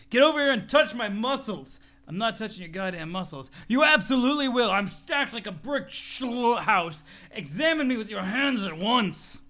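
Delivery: boastful gym bro showing off; a lightly voiced bragging bodybuilder; muscle bro. Muscle bro to his friend Dirk, lightly voiced boasting.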